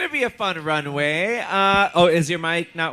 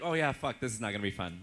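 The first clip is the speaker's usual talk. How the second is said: muttered dread; 7 semitones lower, 10 dB quieter than usual. Retold or imitated. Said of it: "And I'm like".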